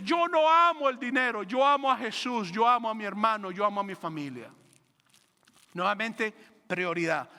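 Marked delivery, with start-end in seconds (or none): 0.0-4.5 proclaiming loudly. Retold or imitated. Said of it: "María gritó a los cuatro vientos".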